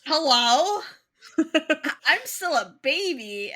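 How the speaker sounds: loud, high, giggly protest; half-laughing mock panic; laughing disbelief. Fireheart stunned at being deputy.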